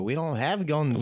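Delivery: exaggerated Australian accent, drawn out; bad Australian accent. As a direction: put on a clumsy Australian accent. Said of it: "it's bad accent".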